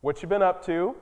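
sweetly loaded small-town question; fake-innocent prying; a hint of a nosy neighbour's needling; passive-aggressive. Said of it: "a passive-aggressive kind of".

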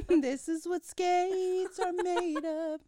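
slow, high and laughing; laughing mock line. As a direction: drag it out while laughing.

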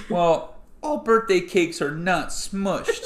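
put-on high, slow whiny kid; laugh-crying cartoon kid; Daniel Tiger voice. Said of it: "And then Daniel goes".

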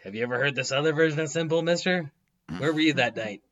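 fast, pushy interrogator; bad cop voice. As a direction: lean on a suspect. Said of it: "I just imagine being a bad cop for Fish".

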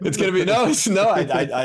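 high, loud flustered denial; flustered protest. Real, not acted. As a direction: sputter out a startled protest. Flustered protest at bulk-up challenge.

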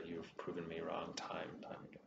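soft whispered concession. Acted. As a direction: breathe it almost silently. NPC concedes quietly.

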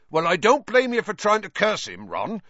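loud, high hearty call. A narrator's reading. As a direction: call out over a racket. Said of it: "said Hagrid loudly".

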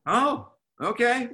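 high, slow line broken by laughter; son's easy-going reply, laughing. Retold or imitated. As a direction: laugh through it as the boy. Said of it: "Brick looks at me and goes".

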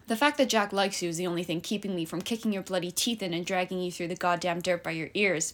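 mild snap. Acted. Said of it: "Pippa snapped".

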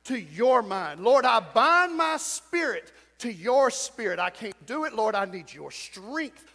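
slow, fervent prayer for them to repeat; leading the congregation in a slow, loud prayer; model prayer. Shown as a demonstration. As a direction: pray it out slowly, line by line.

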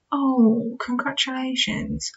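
flat, bored congratulations; monotone voice. Retold or imitated. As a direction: say it with no interest at all. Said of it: "say it in a very monotone voice like what I did there".

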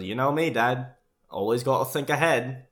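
cheerfully sure of himself; Michael's proud reply. Retold or imitated.

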